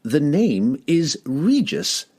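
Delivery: slow, lofty halfling correcting his name; halfling corrects the dwarf, proud retort. A narrator's reading. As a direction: drag it out haughtily from on high. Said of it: "the halfling retorted from his high perch".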